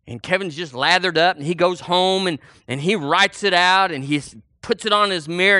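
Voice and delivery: ordinary talk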